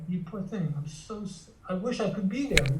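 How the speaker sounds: put-on soft, tender sympathy for a hurting child; softly acted compassion; comforting the inner child. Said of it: "you turn into the inner child and you go".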